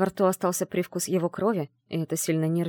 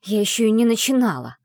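louder defiant spit; spat retort; 3 semitones higher, 5 dB louder than usual. Acted. Heroine spits a defiant reply at the mage. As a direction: fire the words back at him. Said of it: "выплюнула я в ответ".

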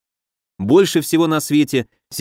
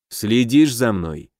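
smirking; 3 semitones lower, slower than usual. Acted. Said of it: "усмехнулся".

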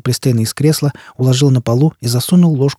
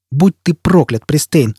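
raised, higher cry of rage; outcry; 4 semitones higher, 3 dB louder, slower than usual. Acted. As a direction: hurl the curse loudly at him. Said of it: "вскричал Дагенхем". (громкий гневный выкрик)

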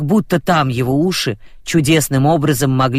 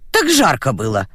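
calm. Acted. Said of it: "спокойно ответила".

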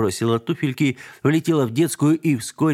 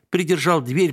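ordinary delivery, nothing marked

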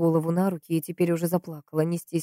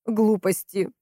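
mild cross exclamation; understated rebuke, briefly raised; snapping at him; 4 semitones higher, much slower than usual. A narrator's reading. Valentina rebukes the investigator, mildly snapping. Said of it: "прикрикнула на него Валентина".

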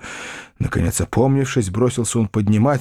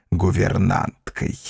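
plain reading voice

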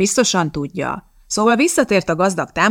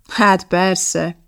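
mocking. A narrator's reading. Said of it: "gúnyolódott Fresk".

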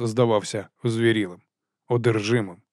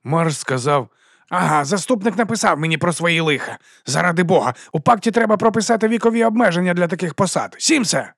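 high, loud exasperated tirade; angry rant; 7 semitones higher, 4 dB louder than usual. Acted. Boss ranting about the sheriff, then calling Sims, high and loud. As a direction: vent it, then bark the guard's name. Boss rants, calls guard.

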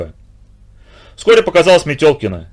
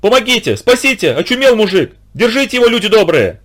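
much higher, frantic call for help; shrieking for help; 7 semitones higher than usual. A narrator's reading. The wife hauls her husband from the water, frantic cry for help. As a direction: holler to the crowd for help. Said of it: "и вопила".

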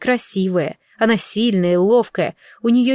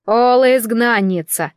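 смиренно. Acted. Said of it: "смиренно сказала она".

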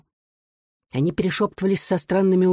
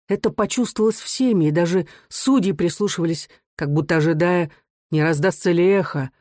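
ordinary delivery

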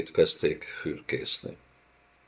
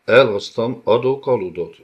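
calling out to the captives, a little louder; a bey's proud announcement, raised voice; shouting to the prisoners; 3 semitones higher, 4 dB louder than usual. Acted. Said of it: "kiáltotta".

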